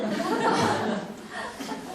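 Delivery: high-pitched imitated wail; mock crying. Child caught in the wrong seat bursts out crying, mock wail. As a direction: fake a child's crying fit. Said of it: "그러면서 지가 울어".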